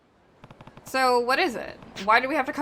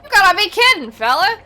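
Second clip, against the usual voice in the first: mock gangster anger; 7 semitones higher, 6 dB louder than usual. Voicing angry gangster in game.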